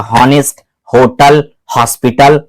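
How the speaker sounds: हॉनेस्ट, होटल, हॉस्पिटल each with a breathed H; sounded H. Shown as a demonstration. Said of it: "हॉस्पिटल और होटल में यहां से हो रहा है".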